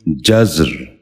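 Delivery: جزر said "jazr", no vowel between z and r; z running straight into a rolled r in جزر; correct pronunciation. Shown as a demonstration. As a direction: say جزر as one syllable, "jazr". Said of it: "دوبارہ سنیے".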